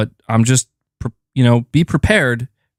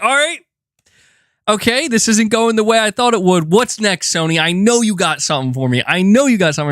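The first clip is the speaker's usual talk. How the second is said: much higher, pleading like an eager fan; mock pleading hype; 8 semitones higher than usual. Fan urging Sony on at the showcase, high and pleading. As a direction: beg Sony for the good stuff.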